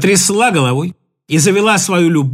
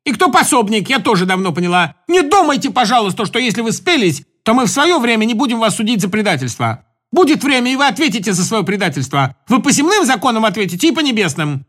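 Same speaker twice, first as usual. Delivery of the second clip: raised, accusing tone. Acted. A woman accusing the traitors in the room. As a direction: accuse them with rising heat.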